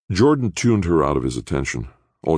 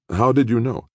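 surprised; 10 semitones higher than usual. A narrator's reading. Surprised greeting at airport.

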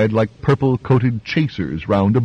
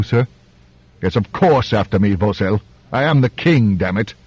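imperious king. Acted. Imperious king giving orders.

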